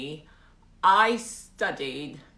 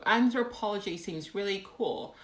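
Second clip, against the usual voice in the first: awful British accent; 3 semitones higher than usual. Shown as a demonstration. Streamer reading a viewer comment, awful British accent. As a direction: read it in a bad British accent. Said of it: "in my awful British accent. Here we go".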